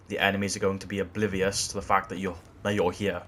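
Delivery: breathless, gasping between words; talking while short of breath. Real, not acted. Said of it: "I'm running out of breath".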